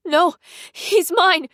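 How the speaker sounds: put-on high, slow, possessive child's protest. A narrator's reading. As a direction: stretch it out, clinging on. Child clings to baby.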